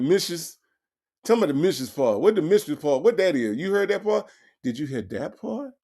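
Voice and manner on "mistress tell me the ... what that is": mistress said as mishiz, mocking the caller; mock the caller saying Mistress as mishiz; mimicking mispronunciation. Host mimicking the caller's garbled Mistress. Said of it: "said he can't even pronounce mistress".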